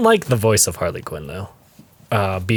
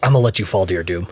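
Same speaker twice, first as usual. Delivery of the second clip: lower, fast mock menace; childish threat; 5 semitones lower, faster than usual. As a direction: rattle off a silly threat. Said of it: "He goes".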